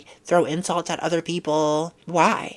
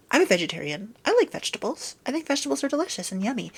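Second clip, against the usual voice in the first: mock sweet; 5 semitones higher, faster than usual. Mock sweet vegetarian praise.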